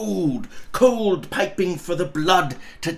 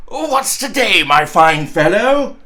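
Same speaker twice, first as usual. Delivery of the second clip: Scrooge calling louder; 2 semitones higher, 7 dB louder than usual. Acted. Scrooge to the boy below, calling out cheerfully. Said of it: "calling downward to a boy".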